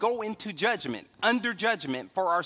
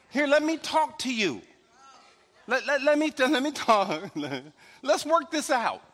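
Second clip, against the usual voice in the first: calming someone down. Retold or imitated. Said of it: "she would talk you off the ledge".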